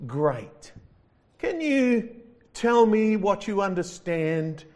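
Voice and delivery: high, loud questioning angel voice; lightly voiced angel at heaven's gate; gatekeeping angel. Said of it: "and says".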